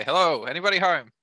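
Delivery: light, half-hearted calling out; mild mock shout. Elf hails whoever is in the goblin cave, mild shout. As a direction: call into the cave without really shouting. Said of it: "I'll shout in".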